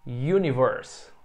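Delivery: "Universe" drawn out very slowly; teacher modelling English; very slow model word. Shown as a demonstration. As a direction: stretch "Universe" right out for the class.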